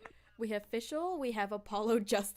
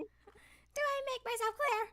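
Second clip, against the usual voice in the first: stern judge; 13 semitones higher than usual. Acted. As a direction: demand it like a judge. Voicing the judge.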